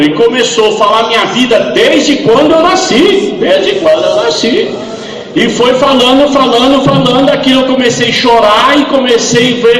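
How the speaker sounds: loud, driving testimony, building fervour; preaching at full force. Acted. Preacher telling the congregation about the dying man, preaching loudly. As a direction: preach the deathbed story to the crowd.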